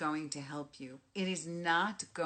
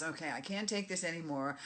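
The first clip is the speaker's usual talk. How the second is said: louder, restless venting; antsy cooped-up people; 4 dB louder, faster than usual. Retold or imitated. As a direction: blurt it like you can't stay inside a minute longer. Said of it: "People are all of a sudden getting very antsy".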